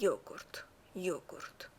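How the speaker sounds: یوگورت opening on a y glide, never English j; y, not j. Shown as a demonstration. Teacher showing newcomers the Slovenian j, یوگورت said with y. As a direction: say یوگورت as "yogurt" with initial y. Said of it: "یه تو زبان اسلوونی جی نخونید".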